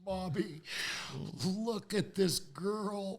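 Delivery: retold high-pitched appeal to mother; pleading to Mommy.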